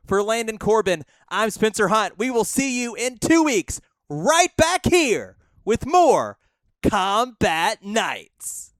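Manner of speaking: show sign-off. Real, not acted. Commentator sign-off.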